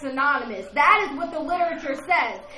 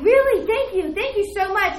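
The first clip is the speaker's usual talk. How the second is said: higher, amazed thanks; surprised gratitude; 4 semitones higher than usual. Retold or imitated. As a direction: act out delighted disbelief. Acted grateful reply to landlord.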